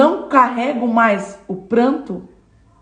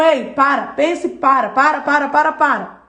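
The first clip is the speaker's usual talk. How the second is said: the Lord saying stop; 3 semitones higher than usual. Acted. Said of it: "O Senhor tá dizendo".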